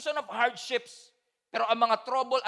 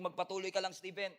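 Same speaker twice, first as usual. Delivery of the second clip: self-encouragement; 3 semitones lower than usual. Retold or imitated. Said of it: "ang hirap sabihin sa sariling".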